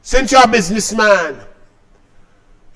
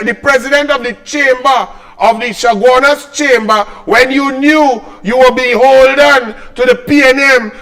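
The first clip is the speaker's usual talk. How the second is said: louder, accusing rant against a rival; angry tirade; 3 semitones higher, 4 dB louder than usual. Real, not acted. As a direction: hammer each accusation home.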